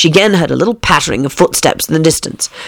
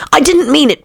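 pleading; 10 semitones higher than usual. A narrator's reading. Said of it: "pleaded poor Alice".

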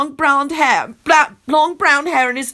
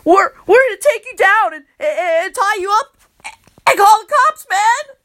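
nervous threat; 7 semitones higher, 4 dB louder than usual. Acted. Kenny threatens Loretta nervously.

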